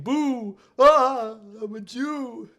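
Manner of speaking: high mocking cartoon voice with a sudden Boo; mocking a bad stock photo in a high voice; mock cartoon villain. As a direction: ham up a silly stereotyped caricature. Voicing a racist stock image.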